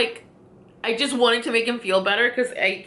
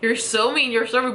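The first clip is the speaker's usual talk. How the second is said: silent inner whine; 5 semitones higher than usual. Retold or imitated. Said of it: "but I'm not saying anything".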